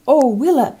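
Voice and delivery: put-on high, loud child's wonder; a small boy gasping at the stars; excited child exclaiming. A narrator's reading. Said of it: "he exclaimed".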